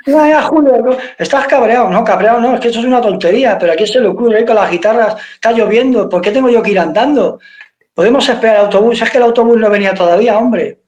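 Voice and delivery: mock-angry rant at the laughing bandmates; retold annoyed rant. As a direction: complain fast and high, fed up. Quarrel in the rain.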